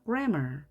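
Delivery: "grammar" with GRAM strong; "grammar", front-stressed; stress on first syllable. Shown as a demonstration. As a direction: hit GRAM, keep "mar" light. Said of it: "강세가 정해지기 때문에 이렇게 힘겨루기 생겨서".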